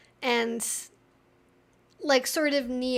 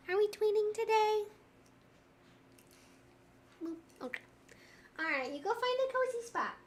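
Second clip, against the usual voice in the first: higher, soft sing-song; 8 semitones higher, 5 dB quieter than usual. Real, not acted. Telling her dog to find a cozy spot in baby talk. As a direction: send the pup off sweetly.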